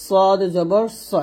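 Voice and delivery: সদ জবর স slowly, স heavy and rounded; heavy "so" sound. Shown as a demonstration. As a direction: draw out স as a full "so". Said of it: "এটা স হবে". (স মোটা করে, টেনে উচ্চারণ)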